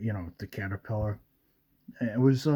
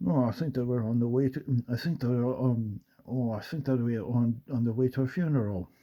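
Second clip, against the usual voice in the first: lightly imitated young Scottish film star; a hint of a young movie spy, halting; Sean Connery; 2 semitones higher than usual. Shown as a demonstration. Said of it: "I can do young Sean".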